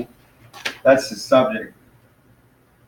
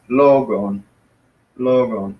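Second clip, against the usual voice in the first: LOgon, first syllable stressed; front stress; slower than usual. Shown as a demonstration. Teacher showing "logon" has its accent in front, first syllable stressed. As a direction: lean on the LO of "logon", letting the end drop. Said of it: "It's in the front".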